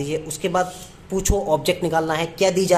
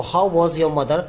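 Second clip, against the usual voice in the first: slow, word-by-word dictation; 3 dB louder, much slower than usual. Shown as a demonstration. Teacher dictating the sentence to students, slowly. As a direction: spell it out word by word for the class. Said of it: "dictating the sentence".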